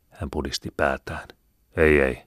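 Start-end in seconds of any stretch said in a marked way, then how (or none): 1.8-2.2 "Ei, ei" said firmly, each "ei" pressed hard; firm, emphatic "Ei, ei"; emphatic refusal. Acted. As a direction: put weight on both "ei". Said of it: "sanoi hän painokkaasti".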